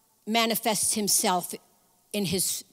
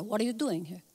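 softer, lightly voiced Jewish mother; 5 dB quieter than usual. Preacher imitating God as a Jewish mother, mildly chiding. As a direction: ask with a hint of motherly reproach. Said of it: "I'm saying it like a Jewish mother".

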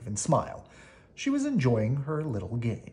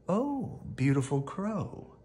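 cunning fox flattery; 5 semitones higher, 3 dB quieter, slower than usual. Acted. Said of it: "he called".

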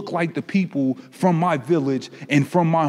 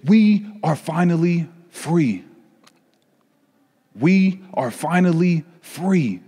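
joyful announcement; 3 semitones higher, slower than usual. Acted. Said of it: "They said".

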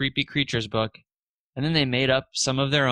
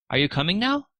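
higher, calling down from the ladder; 8 semitones higher than usual. A narrator's reading. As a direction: call to her from above. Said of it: "Gabriel asked".

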